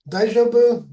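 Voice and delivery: "Daijoubu" high and loud with a falling end; "Daijoubu" demonstrated, falling tune; Japanese word demo. Shown as a demonstration. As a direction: say "Daijoubu" brightly as an example. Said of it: "you hear that a lot".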